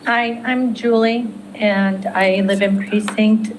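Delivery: hoarse, strained, fading voice; losing her voice. Real, not acted. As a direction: talk through a voice that's going. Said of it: "I'm losing my voice".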